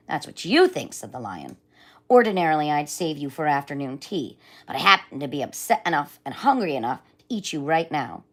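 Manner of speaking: a hint of a hungry lion gloating; menacing hungry lion. Voices the lion figure.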